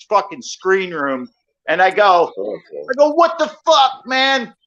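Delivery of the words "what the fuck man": retold angry shout. Yelling at husband from roof.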